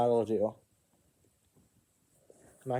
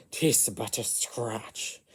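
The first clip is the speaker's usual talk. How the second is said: Serpent King; 2 semitones lower, 4 dB quieter, much slower than usual. Acted. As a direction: shrug off the wound, drawn out slowly. Serpent King shrugs off wound.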